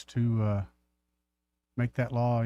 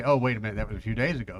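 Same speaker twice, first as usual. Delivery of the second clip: ordinary talk, nothing marked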